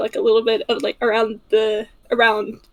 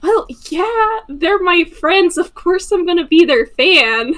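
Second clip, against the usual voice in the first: laughing reply; 6 semitones higher, 5 dB louder than usual. Acted. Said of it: "And he also laughs".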